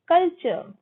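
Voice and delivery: 'कल्चर' ending in 'chuh', no R; silent R. Shown as a demonstration. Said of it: "र silent होता है".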